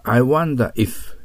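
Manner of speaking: I wonder if, drawn out slowly; slow key phrase. Shown as a demonstration. Teacher drills the key phrase slowly for students. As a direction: say each word slowly so it sticks. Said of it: "しっかり頭に入れてください".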